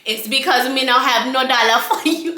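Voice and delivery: friend's mock Rastafarian accent; Rastaman accent. Friend humouring the beggar, mock Rastafarian accent. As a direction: answer back in a put-on Rasta accent. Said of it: "why are you entertaining him in this goddamn accent".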